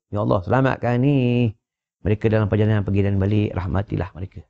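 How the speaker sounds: mild prayer voice; prayerful supplication. Acted. Reciting a prayer for travellers.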